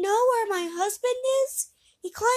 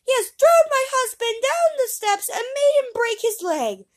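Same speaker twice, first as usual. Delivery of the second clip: much higher, much louder shrieking woman; loud screams; 13 dB louder than usual. Acted. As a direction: scream the accusation at him. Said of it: "with loud screams".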